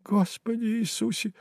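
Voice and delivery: high, soft frightened murmur; a bystander praying behind the narrator; babbled prayer. A narrator's reading. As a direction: breathe it out in fright. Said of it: "пролепетал кто-то".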